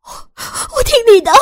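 high, loud panicked giving in; hasty cry. A narrator's reading. Sister giving in to the gunman, high panicked cry. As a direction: cry out to give in. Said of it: "忙不迭地叫道".

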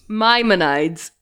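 Maimonides echoed slowly as MY-muh-nides; careful repeated pronunciation. Shown as a demonstration. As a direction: copy Maimonides carefully, long eye at the end. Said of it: "just needed to hear you say that".

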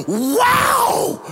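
a very high, loud squealed Wow!; amazed little girl. Retold or imitated. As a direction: mimic the girl who can't contain herself. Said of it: "literally couldn't contain herself".

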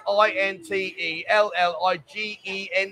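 slowly, letter by letter; spelled out. Real, not acted. Host correcting a viewer's spelling, slow letter by letter.

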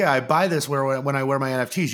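a hint of a clueless pal mixing up his words; lightly voiced goofy friend. Fish explaining his mask to the host, a touch of goofy confidence.

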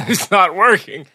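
high, strained voice of a dying man; mock victim voice. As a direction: squeak it out like he's melting. Mocking irradiated victim.

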